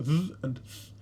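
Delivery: buzzed th, then breath-only th; voiced then voiceless th. Shown as a demonstration. Teacher comparing two similar sounds, voiced then voiceless th. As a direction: contrast the two th sounds in isolation. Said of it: "they're a little bit different".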